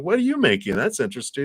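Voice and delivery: high, bright-eyed stranger voice asking; curious stranger. Retold or imitated. Stranger at the pottery shop asks what you're making, high and curious. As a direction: pitch it way up as a chatty stranger.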